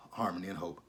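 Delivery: hushed, sinister final words; secretive half-whisper of a schemer; villainous whisper. Retold or imitated. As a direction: let the threat sink in quietly. Villain reveals his plan.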